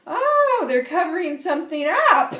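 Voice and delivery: high, loud gasp of mock discovery; mock surprise. Medium on TV, playfully catching out a host's air fresheners, mock surprised squeal. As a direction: squeal it like you've caught them out.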